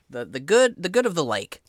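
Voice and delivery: flustered fisherman. Acted. GM voicing fisherman defending sacrifice.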